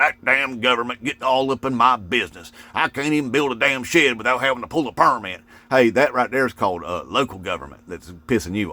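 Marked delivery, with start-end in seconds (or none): 0.0-5.4 lightly imitated complaining, pitched a bit up; mock griping. Imitating neighbors blaming the government, mock griping. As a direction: grumble in mild parody of an aggrieved local. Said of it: "You just start biatching about the government".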